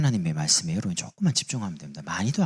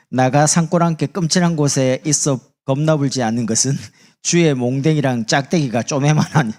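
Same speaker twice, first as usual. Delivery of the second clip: loud, higher Jeolla dialect reading; 전라도 사투리; 4 semitones higher, 7 dB louder than usual. Shown as a demonstration. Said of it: "전라도 사람 이래 말합니다". (전라도 사투리로 높고 크게)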